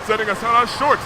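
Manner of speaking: put-on a grand old royal, lightly done; hint of a solemn ancient ruler; regal princess. Luna's ancient royal speech.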